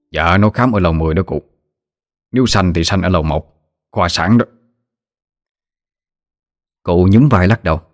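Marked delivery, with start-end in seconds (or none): 0.1-4.5 lightly voiced nephew, subdued; a hint of a patient nephew; obliging nephew. Narrator voices Tư Trình answering.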